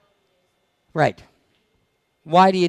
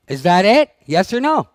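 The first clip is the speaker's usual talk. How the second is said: louder repeat demanding an answer; pushing harder; 2 semitones higher, 3 dB louder than usual. Real, not acted. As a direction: press the question on them again, louder.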